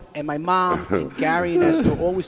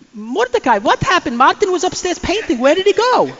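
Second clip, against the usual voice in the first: higher-pitched mock lady; curious neighbor; 9 semitones higher, 3 dB louder than usual. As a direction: fuss over the missing painter. Neighbor asking the plumber.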